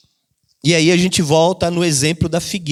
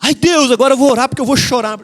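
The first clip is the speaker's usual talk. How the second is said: higher, hurried mock lament; hammed-up sing-song whine; mock whiny prayer; 5 semitones higher, faster than usual. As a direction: parody a believer forcing tears. Mock tearful praying believer.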